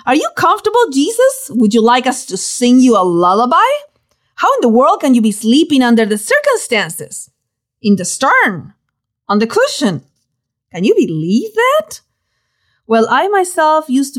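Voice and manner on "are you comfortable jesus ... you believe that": mock sarcasm. Disciple sarcastically scolding the sleeping Jesus, teasing. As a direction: needle him like an exasperated friend.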